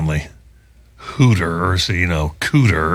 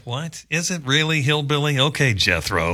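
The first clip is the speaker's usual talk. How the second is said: softly incredulous, pitched up then dropping; mock bafflement under the breath; quiet disbelief; 5 semitones higher, 4 dB quieter than usual. Host reacting to shouting passengers, hushed incredulous aside.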